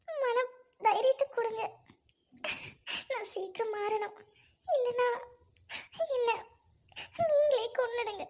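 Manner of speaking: halting plea, broken by long pauses; anguished prayer. Acted. Troubled wife begging God to change her, halting anguished prayer. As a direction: plead privately, piece by piece. Wife prays alone in distress.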